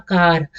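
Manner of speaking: कार pushed, with a long aa; emphatic, drawn-out कार; extra force. Shown as a demonstration. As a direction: lean hard on the vowel of कार. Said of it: "मुझे ज्यादा जोर देना पड़ा".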